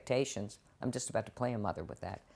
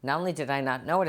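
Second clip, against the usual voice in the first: ordinary talk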